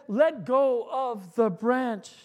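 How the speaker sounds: slow, deliberate voice from above; a lightly voiced God speaking down; the Lord telling George to let go; divine voice. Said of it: "I said".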